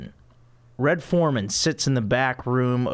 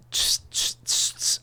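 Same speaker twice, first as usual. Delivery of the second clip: imitating bass riff; 3 dB quieter than usual. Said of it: "I can't do the Seinfeld music".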